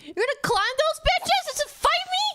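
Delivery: high loud disbelieving challenge; mock the enemy, outraged; incredulous taunt. Real, not acted. Taunting enemies climbing up.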